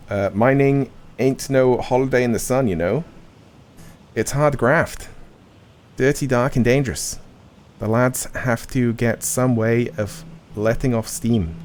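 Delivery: defensive Cockney miner, lightly voiced. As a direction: stick up for the lads in Cockney. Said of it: "always London Cockney".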